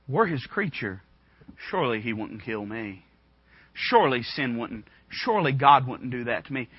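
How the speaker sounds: lightly voiced inner reasoning, low and measured; Eve's thoughts. Preacher imagining Eve reasoning with herself, lightly acted, low. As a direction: think it through in low, paused phrases. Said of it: "she probably thought this".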